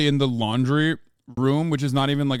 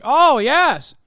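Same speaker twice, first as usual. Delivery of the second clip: high, loud pompous gentleman; posh snob voice; 12 semitones higher, 8 dB louder than usual. Retold or imitated. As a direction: play the stuffy old-money type. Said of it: "transatlantic accent".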